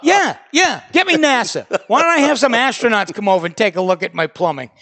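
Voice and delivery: sarcastic reply. Retold or imitated. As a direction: ham up the fake enthusiasm. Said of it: "I go".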